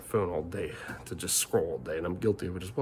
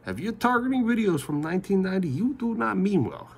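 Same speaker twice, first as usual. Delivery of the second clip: raised, higher and louder rebuke; angry scolding; 11 semitones higher, 3 dB louder than usual. Real, not acted. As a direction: tell him off firmly. Scolding the troll.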